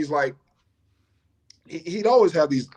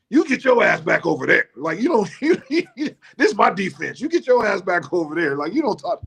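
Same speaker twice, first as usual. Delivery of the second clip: imitating a scolding Chief; 7 semitones higher, 3 dB louder than usual. Chief tells off head coach.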